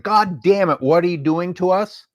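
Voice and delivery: high, loud exasperated shout; hammed-up frustrated groan at the team; mock fan yell. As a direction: yell it like a fed-up Cleveland fan. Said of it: "yell and scream like".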